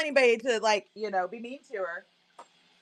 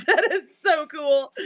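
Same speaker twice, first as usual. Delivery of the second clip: 1 laughing; 4 semitones higher than usual. Retold or imitated. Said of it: "I'm like".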